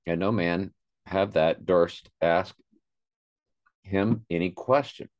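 talking with food in mouth; words round a mouthful, slowed down; mouth full. Real, not acted. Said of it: "Sorry, I got some in my mouth".

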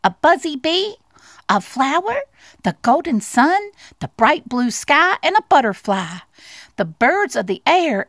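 high, eager mouse voice; joyful little mouse. Acted. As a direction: pour out each discovery with childlike delight. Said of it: "called Little Mouse joyfully".

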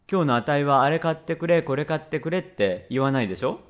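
put-on a little boy angling for praise, rising at the end; child's leading question, lightly acted; lightly voiced coaxing child. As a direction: lightly play a child fishing for agreement. Child coaxing his father.

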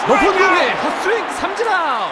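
high, loud shout on the strikeout; excited strikeout call. Real, not acted.

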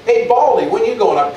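mild sing-song taunt; lightly voiced jeering child; mocking kids. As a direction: tease him like a playground kid. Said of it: "they're mocking him".

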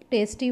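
टेस्टी said in one go, no break; one unbroken word. Shown as a demonstration. Teacher showing students a short word, टेस्टी said in one go. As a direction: run टेस्टी together as a single unit. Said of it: "हम एक ही बार में बोलते हैं".

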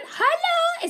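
high, drawn-out hello; sing-song hello. Real, not acted. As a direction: greet a viewer brightly. Greeting viewer by name.

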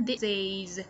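"This is" linked, with a clear final z; "This is" run together, ending on an audible z; clear ending sound. Shown as a demonstration. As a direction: join "This is" and sound the last z clearly. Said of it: "đọc các cái âm ending sound cho thật rõ".

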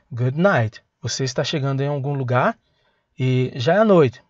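ordinary delivery

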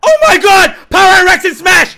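ecstatic shout. Real, not acted. Streamer hears his favourite characters are in Smash, ecstatic shouting. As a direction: yell it like your dream just came true.

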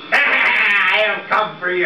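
slow spooky ghost moan. Acted. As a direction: drag it out like a ghost. Ghost threatens Punch.

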